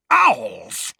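loud, high shout of alarm. Acted. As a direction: bark the word out in alarm. Sudden alarmed cry.

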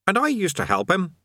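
raw, put-upon grumble; sullen indignant demon. A narrator's reading. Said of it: "its voice raw with sullen indignation".

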